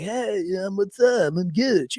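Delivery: hint of forced casual cool; lightly mock a teen playing grown-up; trying to sound older. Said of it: "trying to act like I'm in my twenties".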